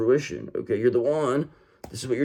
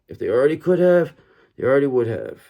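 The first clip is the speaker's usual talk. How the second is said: louder, pressing each word home; emphatic repeat; 3 dB louder, faster than usual. Shown as a demonstration. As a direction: say it again with more force. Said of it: "I wanna say it once more".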